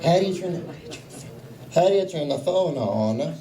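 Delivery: put-on puzzled Italian-accented father; dad's Italian accent. Dad trying to work the phone, puzzled Italian accent. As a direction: imitate a baffled Italian dad asking aloud. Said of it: "In his Italian accent".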